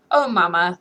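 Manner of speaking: pleading. Acted. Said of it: "pleaded Suzanne".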